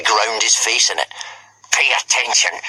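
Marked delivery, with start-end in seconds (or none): 1.7-2.6 hiss. Acted. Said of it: "hissed Snotlout".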